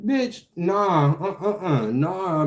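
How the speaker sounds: a giddy laughing no; laughing dismissal. Real, not acted. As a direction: laugh off the offer. Laughing at the agency offer.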